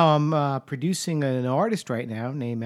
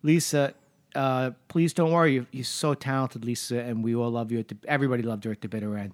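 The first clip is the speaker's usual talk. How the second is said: comforting; 4 semitones lower, 5 dB quieter than usual. Retold or imitated. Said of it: "I went over to her and I said".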